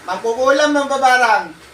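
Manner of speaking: name the witch to its face; accusing the spirit. Real, not acted.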